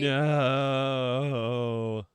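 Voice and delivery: loud, high shocked No; real disbelief, gasped out. Real, not acted. Gasps at ghosting story.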